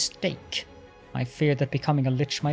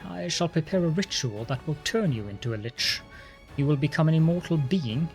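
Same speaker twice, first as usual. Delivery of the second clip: arrogant lich voice. Acted. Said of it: "Arrogance rings in the lich's voice".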